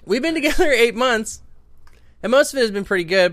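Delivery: high put-on voice reading the letter. Cohost reading the listener's letter, high put-on voice. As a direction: read the letter in a lifted, performed voice.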